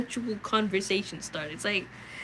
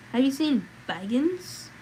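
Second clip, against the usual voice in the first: slow, higher, eerie question; queer voice; 4 semitones higher, slower than usual. Acted. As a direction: ask it slowly like a strange rider. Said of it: "he asked in a queer voice".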